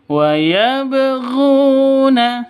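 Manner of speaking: yabghuna with the b bounced; slow chanted yabghuna, b echoing; bouncing qalqalah. Shown as a demonstration. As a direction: let the b of yabghuna rebound. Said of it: "Cara bacanya dipantulkan".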